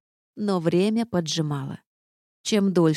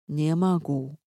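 castle's refusal; slower than usual. A narrator's reading. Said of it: "замок заявил".

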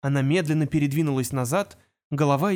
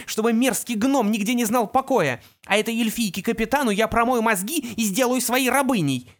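threatening; 8 semitones higher than usual. A narrator's reading. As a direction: pour out threats, voice raised high. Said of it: "сыпала угрозами".

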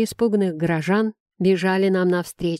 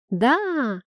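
put-on higher, children's chorus answer; children shouting together; 5 semitones higher than usual. A narrator's reading. Children in the carriage answer Namiya, high chorus. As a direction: answer like a crowd of little kids. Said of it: "крикнула малышня хором".

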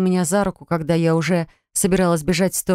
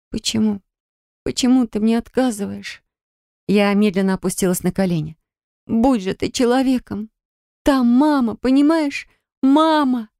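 rising, tearful plea that climbs higher toward «Мама»; tearful pleading; 4 semitones higher than usual. Acted. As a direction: beg through tears, voice climbing. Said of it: "а обзор затягивала мутная пелена слёз". (сквозь слёзы, умоляюще)

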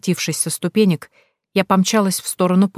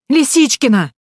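much higher, louder desperate cry of Лисичкина; desperate shout; 8 semitones higher, 5 dB louder than usual. A narrator's reading. Heroine calls the lost girl louder in panic. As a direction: yell Лисичкина with rising panic. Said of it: "закричала я".

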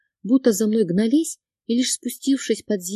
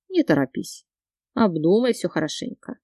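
usual speaking voice

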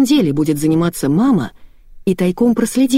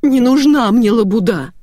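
high, slightly raised howl of protest; mild wail; 6 semitones higher, 4 dB louder than usual. A narrator's reading. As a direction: howl it in mock distress, restrained. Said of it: "взвыла Евгения". (сдержанный возмущённый вой)

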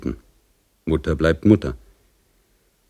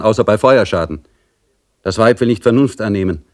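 lightly voiced soldier making his report; reporting sergeant; 5 semitones higher, 5 dB louder than usual. Sergeant reports a woman at the door to the general, dutiful. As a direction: report briskly to a superior officer.

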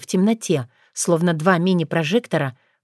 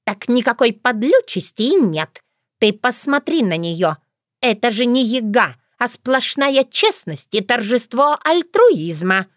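crow-like caw; 5 semitones higher than usual. Acted. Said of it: "каркнула Воронесса".

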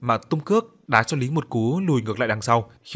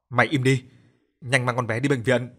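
a touch louder, urgent order; speaking loudly. Acted. Man shouting at the grieving father to hurry, a bit louder. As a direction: raise the voice to cut him off. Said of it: "mà nói to".

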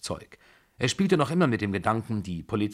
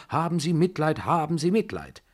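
higher-pitched, repeated plea; insistent pleading; 7 semitones higher, 3 dB louder than usual. A narrator's reading. General begging over and over for pity, pleading. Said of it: "wiederholte immer wieder".

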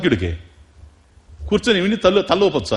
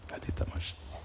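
whispered aside with a hint of fun; 20 dB quieter, slower than usual. Real, not acted. Preacher whispering a playful aside to listeners. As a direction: lean in and whisper the joke.

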